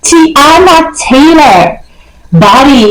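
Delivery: high, drawn-out mock boasting; full of herself. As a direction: sing out the self-admiration in a playfully high voice. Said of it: "I was so full of myself".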